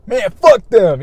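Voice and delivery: loud, high mock outburst; angry outburst. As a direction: fling it out like a brush-off. Mock dismissive quote, shouted.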